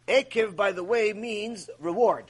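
normal talking voice

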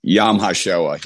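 slow Southern drawl on the Hebrew; Southern accent. Real, not acted. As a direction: repeat it slowly in a thick Southern accent. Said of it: "not with that old redneck Southern accent I've got".

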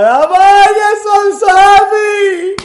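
high, loud, slow, ecstatic; overjoyed. Retold or imitated. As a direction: shout it out with joy. Joyful call to the rabbi.

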